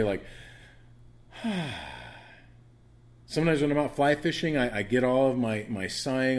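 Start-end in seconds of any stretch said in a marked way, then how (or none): 1.3-2.2 long, falling contented sigh; happy sigh. Shown as a demonstration. Teacher shows the class a good way to sigh, happy sigh. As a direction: let out a good, relieved breath. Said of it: "you can sigh in a good way".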